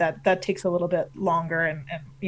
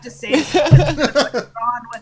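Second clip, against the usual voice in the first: Canadian pirate; 4 dB louder than usual. Acted. Finishing the team question, Canadian pirate voice. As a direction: finish like a comic pirate captain. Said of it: "your Canadian pirate voice".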